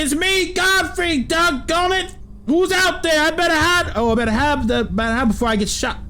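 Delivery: a frightened villager hiding from temple guards; country accent. Acted. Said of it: "Why am I speaking in a country accent".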